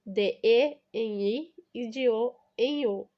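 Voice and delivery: slow spelled-out sounds. Shown as a demonstration. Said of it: "Permutação".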